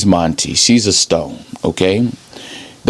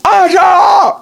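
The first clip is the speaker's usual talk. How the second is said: mom's Mexican shout. Retold or imitated. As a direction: holler "Angela" across the house like a Mexican mom. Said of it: "her mom would call her in the Mexican tone".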